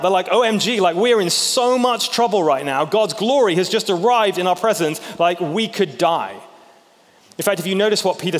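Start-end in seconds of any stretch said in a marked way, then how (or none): 0.3-6.3 freaking out. Retold or imitated. Preacher voicing disciples freaking out at God's glory, panicked. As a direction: blurt it out like you might die any second. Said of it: "They completely freak out".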